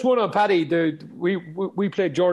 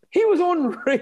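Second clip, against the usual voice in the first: gushing, mock excited; 12 semitones higher, 3 dB louder, slower than usual. Girlfriend gushing about a player.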